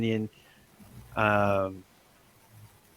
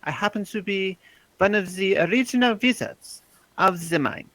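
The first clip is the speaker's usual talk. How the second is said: raised, grand wizard voice; pompous old wizard; 8 semitones higher than usual. Acted. Dwarf cleric bluffing the spectator, lofty old wizard. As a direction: play up an ancient wizard's pomp. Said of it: "you hear Cal responds".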